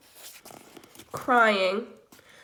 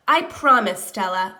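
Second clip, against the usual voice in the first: a hint of a solemn silverback father; like his father; 3 semitones lower, 7 dB louder than usual. Gorilla vows to the dying elephant, solemn father voice. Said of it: "in a voice just like my father's".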